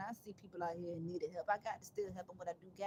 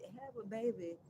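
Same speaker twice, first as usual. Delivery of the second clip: quoting her advice; 3 semitones lower than usual. Retold or imitated. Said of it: "That what she said to me".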